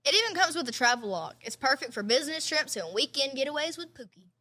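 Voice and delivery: scripted podcast sponsor read. Real, not acted. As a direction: read the sponsor copy evenly.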